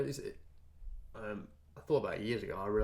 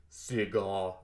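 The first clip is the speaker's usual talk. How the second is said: Arnold accent; 5 dB louder than usual. Shown as a demonstration. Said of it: "I can't do it".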